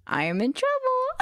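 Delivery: very high panicked squeak. Real, not acted. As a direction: squeak it out in dread.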